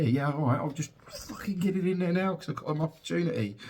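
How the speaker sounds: lightly voiced keen anaesthetist; mock eager doctor. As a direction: play the doctor jumping at the chance. Imagined eager anaesthetist's reply.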